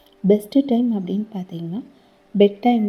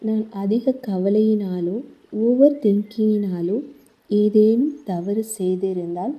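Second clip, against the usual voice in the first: guided meditation. Acted. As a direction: gently guide the listener through the body, slowing on each thank-you. Leads a guided healing meditation. (மெதுவான, மென்மையான தியான வழிகாட்டும் குரல்)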